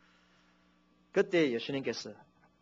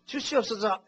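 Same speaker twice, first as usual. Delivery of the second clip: one more mock plea; 5 semitones higher than usual. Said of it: "더 이상 안 하겠습니다만은".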